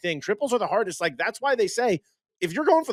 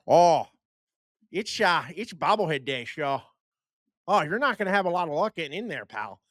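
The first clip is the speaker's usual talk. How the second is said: put-on Milwaukee accent. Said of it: "decent Milwaukee impersonation".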